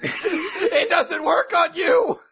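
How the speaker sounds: stretched-out comic dismay; mock shocked realisation. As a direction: yell it aghast, breaking into laughter. Acting out shocked realisation face.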